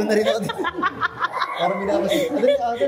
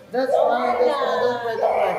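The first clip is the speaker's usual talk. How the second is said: higher, insistent reassurance; urgent soothing; 6 semitones higher, slower than usual. Real, not acted. Parent calming son during first haircut, urgent soothing.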